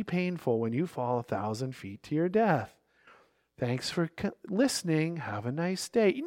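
soft, overly polite and calm; mock calm. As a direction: hush it like a casual, unbothered warning. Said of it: "you're not gonna kinda really calmly say".

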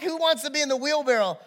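high, lightly acted showman's call; a touch of stage announcer; great showman. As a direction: throw the challenge out to a crowd. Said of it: "He was a great showman".

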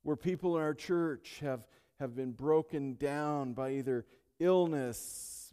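loud, building preacher's cry; preaching at full force. Acted. Pastor railing against disease before the congregation, loud building preaching.

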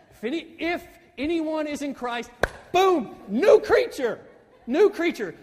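high, booming shout on "boom, new creature"; excited exclamation. Shown as a demonstration. Preacher relishing the Greek reading, excited shout. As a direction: build from "if" to an explosive, stretched "boom".

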